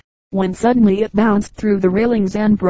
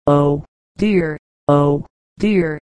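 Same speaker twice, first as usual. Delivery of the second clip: low, understated moan; a touch of weepy lament; tearful moan; 5 semitones lower, much slower than usual. A narrator's reading. Wife in a domestic quarrel, moaning mildly. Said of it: "moaned wifey in tears".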